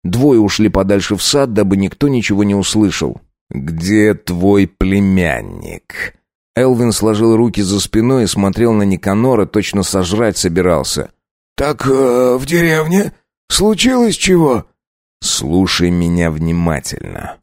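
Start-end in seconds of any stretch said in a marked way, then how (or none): 3.5-6.1 slow cold question. Acted. Count interrogates. 11.6-14.7 high, nervous peasant voice; uneasy servant. Acted. Werewolf servant answering the count, nervous and high.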